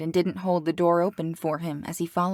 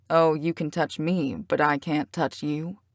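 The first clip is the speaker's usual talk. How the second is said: teasing; 2 semitones lower than usual. Acted. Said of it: "light, teasing quality".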